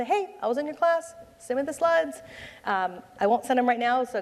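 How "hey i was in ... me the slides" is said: mock attendee email.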